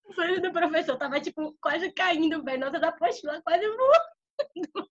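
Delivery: slow words with laughter still in them; fighting back giggles; a touch of laughter; laughing. Real, not acted.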